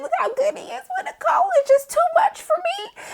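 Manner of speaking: high squealing through a laugh; overwhelmed squeal. Retold or imitated. Fan overwhelmed by the dad with his daughter, high laughing squeal. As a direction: gush until it breaks into laughter. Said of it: "And I was just like".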